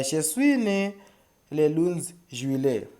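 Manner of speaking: "Je suis né le onze juillet" modelled in French, slowing on "le onze juillet"; French pronunciation. Shown as a demonstration. Teacher shows how to give a birth date, "Je suis né le onze juillet" pronounced in French. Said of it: "that's how you say".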